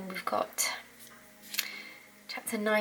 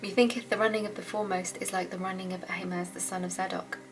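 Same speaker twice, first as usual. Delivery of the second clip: scripture reading. Acted. Reads the chapter aloud.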